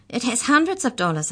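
high, gasped answer. A narrator's reading. Mallory answers with head reeling, gasping. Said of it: "Mallory was able to gasp".

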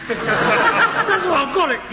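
amused mock grievance; laughing. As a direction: break into laughter on the accusation. Son ends his rant.

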